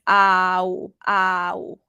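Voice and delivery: เอา from open a to rounded อู; เอา gliding a to อู; a then rounded u. Shown as a demonstration. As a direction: round the lips at the end of เอา. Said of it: "like your mouth is rounded".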